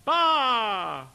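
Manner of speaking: high, loud held syllable; calling voice. Shown as a demonstration. Teacher demonstrating belted vowels, calling out. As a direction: belt it like a hail. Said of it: "it's in your calling voice".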